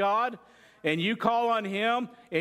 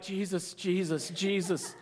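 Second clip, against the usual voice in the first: softer, nervous repeated plea; scared prayer; 4 dB quieter than usual. Retold or imitated. Wife scared by husband's driving, softer nervous plea. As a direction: mutter it, clutching the grab bar. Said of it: "I've heard her like".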